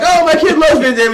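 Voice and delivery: high, gushing mock excitement; high-pitched retold enthusiasm; excited coworker. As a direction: imitate a thrilled, gullible parent. Acting excited coworkers taken in.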